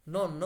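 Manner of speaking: নন্ন with a long held nn; double consonant nonno. Shown as a demonstration. Teacher demonstrating Italian double n in নন্ন, held long. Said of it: "দোপ্পীয় কনসোনান্তে".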